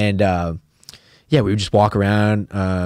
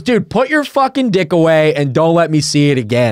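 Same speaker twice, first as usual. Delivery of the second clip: raised-voice mock telling-off; scolding cop; 7 semitones higher, 4 dB louder than usual. Cop ordering peeing guy to zip up, mock-stern. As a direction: scold like a fed-up officer, retold for laughs.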